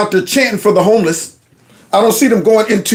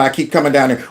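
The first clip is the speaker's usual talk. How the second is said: mock nasal voice; 5 semitones lower, faster than usual. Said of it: "talking about".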